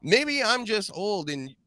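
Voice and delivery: high-pitched incredulous venting; exasperated rant. Real, not acted. Sports host venting about an overpraised punter, exasperated. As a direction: blow off steam in high, stretched questions. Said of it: "I gotta blow off some steam".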